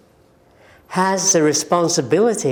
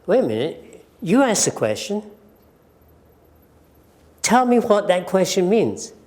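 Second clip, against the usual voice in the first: confident demand; 3 semitones higher than usual. Shown as a demonstration. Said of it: "feel confident".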